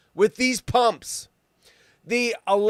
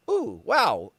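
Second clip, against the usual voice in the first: ordinary talk, nothing marked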